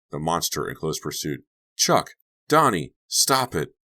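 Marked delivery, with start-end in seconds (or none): 1.7-3.7 high, loud scolding calls; exasperated shouting. Acted. Jenny halts the chase, high loud scolding. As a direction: shout to break up horseplay.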